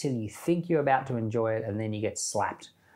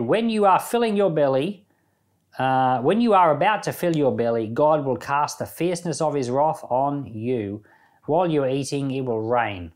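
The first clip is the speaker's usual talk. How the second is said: Zophar threatening; 5 dB louder than usual. Retold or imitated. Preacher voicing Zophar threatening Job with God's wrath, raised and loud. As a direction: boom it out like an accusing friend. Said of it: "he also said".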